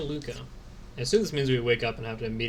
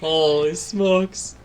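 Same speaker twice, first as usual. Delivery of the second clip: surprised; 4 semitones higher, 7 dB louder, much slower than usual. Real, not acted. Reacting to game moment.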